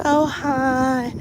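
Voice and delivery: put-on high, drawn-out old man voice; ancient anesthesiologist. Old doctor greeting his patient, ancient drawn-out voice. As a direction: imitate a very old man, stretching each word. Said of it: "this is exactly how he said it".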